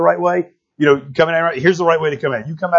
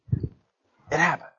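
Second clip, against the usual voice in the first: much softer, drawn out slowly; slow soft echo; 10 dB quieter, much slower than usual. Acted. Preacher repeating the point softly to the church. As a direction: let it land quietly and slowly.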